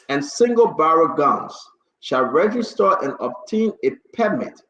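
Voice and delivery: measured official read-out with stretched key phrases; formal order reading. Real, not acted. Host reads the order again for listeners, formal and deliberate. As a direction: read a decree aloud, phrase by phrase. Rereads executive order aloud.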